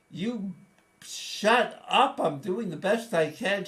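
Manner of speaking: loud, high angry retort; snapping back. Retold or imitated. Son yelling back at his nagging mother, loud and angry. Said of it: "I said".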